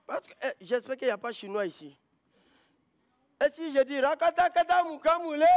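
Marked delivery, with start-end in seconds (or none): 3.4-5.4 gibberish mock Chinese; fake foreign language. Shown as a demonstration. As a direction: rattle off made-up Chinese words. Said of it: "Que des faux chinois".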